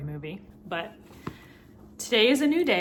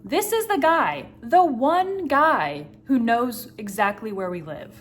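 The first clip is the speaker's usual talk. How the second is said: louder, rising alarm; panicky inner voice; 2 semitones higher, 5 dB louder than usual. Retold or imitated. Scared herself thinking of the buyer, loud and alarmed. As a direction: spill the worry out in a rush. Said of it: "this element of".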